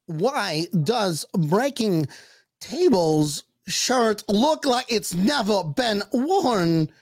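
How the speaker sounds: very slow, halting, odd pauses; Christopher Walken impression. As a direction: stretch it out in a strange cadence. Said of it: "that was my Christopher Walken impersonation".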